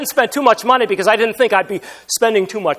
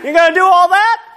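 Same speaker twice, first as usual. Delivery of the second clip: incredulous; 10 semitones higher, 4 dB louder than usual. Retold or imitated. Elder's imagined retort, mocking.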